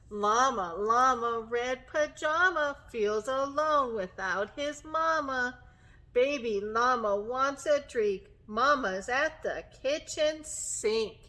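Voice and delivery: measured, rhythmic rhyme reading; storybook reading to children. Acted. Teacher reads a bedtime tale to children, gentle storytime reading. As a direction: read the rhyme gently, stretching the last words.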